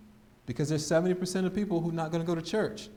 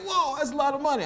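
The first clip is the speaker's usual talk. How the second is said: higher-pitched whoa at the price; lightly acted shock at the bill; mock surprise; 10 semitones higher, 4 dB louder than usual. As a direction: balk at the cost, pitch up. Client balks at the high price.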